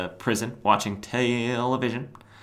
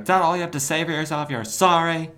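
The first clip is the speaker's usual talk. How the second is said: high, incredulous telling-off; hammed-up indignant disbelief; mock scolding; 7 semitones higher than usual. Ambush Bug to Cobra who apologised, mock scolding.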